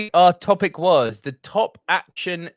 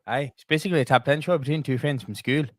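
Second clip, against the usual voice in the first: put-on Irish accent; 4 semitones lower, faster than usual. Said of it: "You are not gonna try and do this the whole way through".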